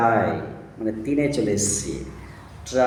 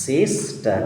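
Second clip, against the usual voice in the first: সিস্টার in two separate beats; syllable by syllable; much slower than usual. Shown as a demonstration. Teacher shows a child two syllables, broken into parts. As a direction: split সিস্টার after the first syllable. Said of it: "but syllable দুটো".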